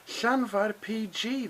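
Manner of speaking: "Llanfair P G" slowly with rising end; slow local demo. Shown as a demonstration. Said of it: "they call it there".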